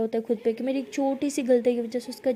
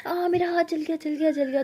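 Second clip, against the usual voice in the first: pained cry; 4 semitones higher, 3 dB louder than usual. Retold or imitated. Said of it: "वो इतने ज़ोर से कहती".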